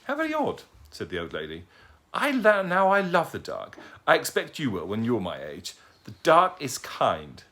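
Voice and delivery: put-on a dotty, courteous old lady; polite old lady. Old lady greeting the owl who fell at her feet, genteel and high.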